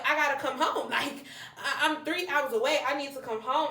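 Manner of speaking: reenacted urgent begging; retold pleading. Retells pleading with mom to come home.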